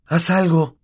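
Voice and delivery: high, urgent plea for help; desperate plea. A narrator's reading. Harry begs Hermione to act, high and urgent. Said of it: "dijo desesperado".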